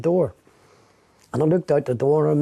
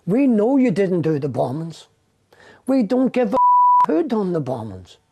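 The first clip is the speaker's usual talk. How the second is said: higher, slow, deliberate threatening officer; menacing detective; 7 semitones higher than usual. Retold or imitated. Detective leaning over the prisoner in the chair, slow higher menacing voice. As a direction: lean in and spell it out slowly, higher.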